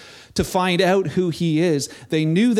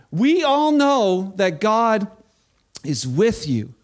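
slow emphatic repeat; slower than usual. Shown as a demonstration. Preacher repeating Nicodemus's words slowly for emphasis. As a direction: drag out every word for weight. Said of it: "We all know that God has sent you".

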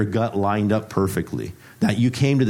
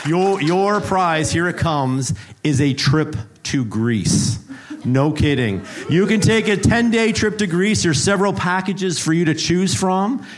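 game show host; 3 semitones higher than usual. Acted. Preacher plays game show host to the congregation, hyped announcer. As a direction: sell the prize like a cheesy TV host.

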